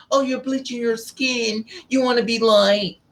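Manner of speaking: high mocking imitation of a girl; mocking accusation. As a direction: mimic the girls sneering at you. Mocking dark skinned girls.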